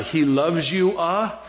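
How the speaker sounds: mock preacher ending "He loves you" with an added "uh"; preacher's "uh" tic. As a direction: tack "uh" onto the end of "He loves you". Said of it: "starting to say, "uh," at the end".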